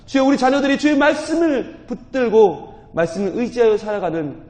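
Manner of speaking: fervent closing prayer. Real, not acted.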